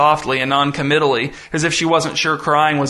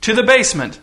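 higher, giddy, showman's announcement; giddy visitor; 7 semitones higher than usual. Acted. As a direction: announce it like a treat, all glee. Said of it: "was now nearly giddy".

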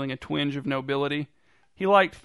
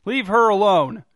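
loud, high command that rings out; bold shout; 5 semitones higher, 9 dB louder than usual. A narrator's reading. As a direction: order him off with full force. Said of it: "his voice bold and striking".

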